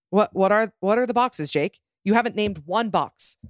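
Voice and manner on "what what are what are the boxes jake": rising disbelief, pressing; incredulous. Real, not acted. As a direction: ask as if baffled. Incredulous demand.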